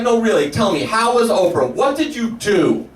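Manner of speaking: lightly voiced father pressing for details; dad. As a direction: press harder, stretching the final question. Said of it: "He's like".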